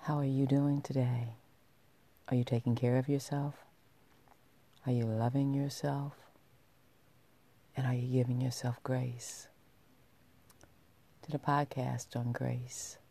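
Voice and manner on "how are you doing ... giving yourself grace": sultry voice. Acted. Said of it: "with a sultry voice".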